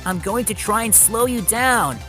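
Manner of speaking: urgent calling out. A narrator's reading. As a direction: call your plan out to a runaway. Thomas still calling to runaway James.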